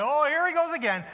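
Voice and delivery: mock weary congregation. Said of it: "You go".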